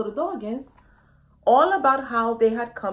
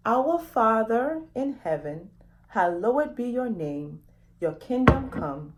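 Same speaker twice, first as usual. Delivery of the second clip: prayer. Acted. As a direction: lead the children through it calmly. Leads the children in prayer.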